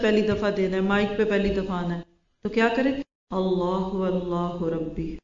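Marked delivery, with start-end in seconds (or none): 3.3-5.2 slow, drawn-out Arabic recitation; measured supplication in Arabic; dua recitation. Shown as a demonstration. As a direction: recite the prayer slowly, lingering on the vowels. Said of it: "ایک دعا ہے".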